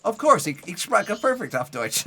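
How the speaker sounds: high, loud cocky boast; hammed-up eager answer; mock confidence. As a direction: play up fake fluency with gusto. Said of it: "I'm like".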